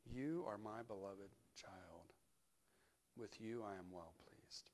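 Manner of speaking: slow, gentle blessing; tender. Acted. Preacher blesses the congregation, slow and gentle. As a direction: offer it softly to each listener.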